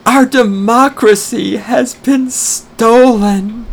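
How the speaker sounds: high, slow, whiny mock sob; mocking crying woman. Ranter mocks the woman crying in the video, in a high whiny voice. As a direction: mimic her tearful wail with scorn. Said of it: "She starts crying, Tears are coming out, She's like".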